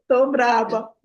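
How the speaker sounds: laughing through a playful cross remark; half-laugh that she is getting cross; teasing herself through a laugh; laughing mock anger. Real, not acted. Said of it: "Olha, já tô braba".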